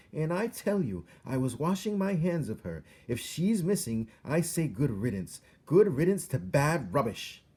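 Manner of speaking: loud, high, scornful shouting; angry shout. A narrator's reading. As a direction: spit out good riddance, loud. Louise shouting continues.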